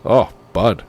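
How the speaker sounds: a working-class Northern Ontario drawl; North Bay accent. Retold or imitated. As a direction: do the hoser buddy voice. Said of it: "Just even talking like that".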